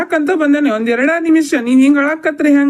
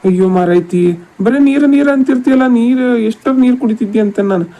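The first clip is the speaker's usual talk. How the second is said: loud, exasperated husband telling her off; a fed-up husband calling out loud; raised scolding voice; 5 dB louder than usual. Acted. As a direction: scold her loudly in the dark. Husband scolding wife in dark.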